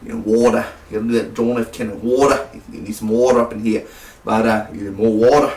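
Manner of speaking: badly faked regional accent on "water"; Chris Pine accent. Reviewer failing at Chris Pine's movie accent, mock accent. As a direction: lean hard into the accent on each "water". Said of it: "I can't do the accent".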